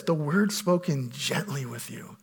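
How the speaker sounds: savoured repeat. Shown as a demonstration. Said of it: "And I love this".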